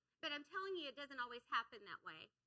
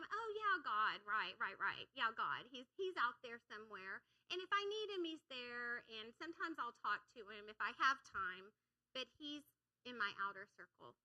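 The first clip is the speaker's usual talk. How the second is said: offhand dismissal. Acted. Preacher voicing a casual believer to church, offhand. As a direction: brush it off with a breezy "oh, yeah".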